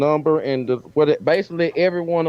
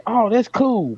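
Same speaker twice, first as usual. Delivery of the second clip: light, higher-pitched impression of an impressed passerby; mock casual onlooker; 10 semitones higher, slower than usual. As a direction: toss it off brightly like someone glancing at a shirt. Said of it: "looked at it and say".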